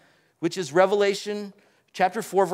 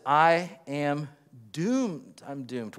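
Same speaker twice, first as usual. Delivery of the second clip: doomed Isaiah; 4 semitones lower, slower than usual. Retold or imitated. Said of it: "He says".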